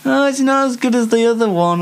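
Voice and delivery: lightly voiced anxious worrier; fretting over what people think; fretful inner voice. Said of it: "I'm scared, darling".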